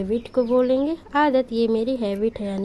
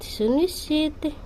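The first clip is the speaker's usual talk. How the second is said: सुनिश्चित said again slowly and softer, syllable by syllable; teacher repeating सुनिश्चित slowly; 2 semitones higher, 5 dB quieter, slower than usual. Shown as a demonstration. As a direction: drill सुनिश्चित slowly for the class to copy. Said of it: "assure को हम हिंदी में बोलेंगे".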